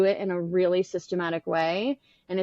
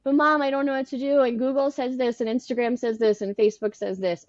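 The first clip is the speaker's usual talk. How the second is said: tearful plea; 4 semitones higher than usual. Retold or imitated. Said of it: "probably in tears being like".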